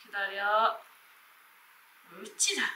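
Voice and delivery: talking to a dog. Real, not acted. Training the puppy with commands.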